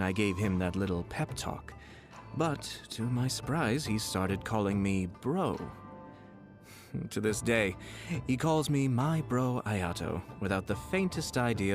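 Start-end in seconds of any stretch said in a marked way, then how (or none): 5.6-6.1 very soft, brief laugh; quiet chuckle. Acted. Nobleman recalling being called bro, quiet amused chuckle. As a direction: chuckle softly to oneself.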